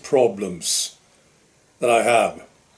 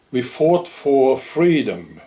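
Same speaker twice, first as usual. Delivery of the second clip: slow, moved reading of a veteran's words; getting emotional; slower than usual. Real, not acted. Reading the old veteran's quote aloud to viewers, slow and moved. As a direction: let the emotion slow you right down on "We fought for freedom". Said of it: "I'm getting emotional when I read this thing".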